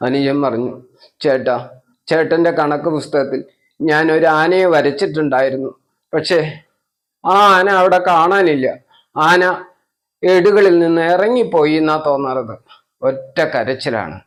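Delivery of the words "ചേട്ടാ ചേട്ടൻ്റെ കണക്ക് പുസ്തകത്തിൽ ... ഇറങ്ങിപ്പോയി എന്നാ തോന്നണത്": lightly voiced wailing child; crying child. Telling his big brother the elephant vanished, mild tearful whine. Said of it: "ഉറക്കെ ഉറക്കെ കരഞ്ഞു".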